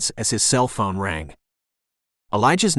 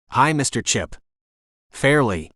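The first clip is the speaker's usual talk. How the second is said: southern twang. Acted. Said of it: "a southern twang colored his words".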